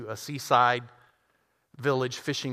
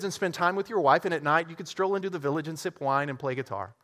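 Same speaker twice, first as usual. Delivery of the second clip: businessman voice; 4 semitones higher than usual. Acted. Businessman describing the retirement plan.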